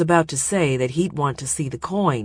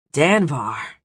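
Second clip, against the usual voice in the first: wheezing; 3 dB louder than usual. Acted. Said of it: "he wheezed".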